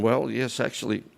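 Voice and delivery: measured, unhurried reply in a storyteller's voice; retold calm. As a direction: play Death as composed and matter-of-fact. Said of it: "death is very calm".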